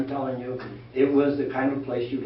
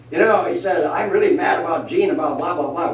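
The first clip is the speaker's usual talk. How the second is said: mock angry caller, louder and higher; angry constituent; 3 semitones higher, 5 dB louder than usual. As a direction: play the irate voter complaining loudly.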